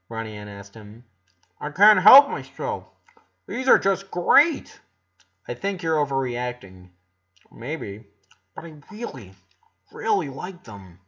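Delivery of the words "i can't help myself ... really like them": eager. A narrator's reading. Boy raving about waffles.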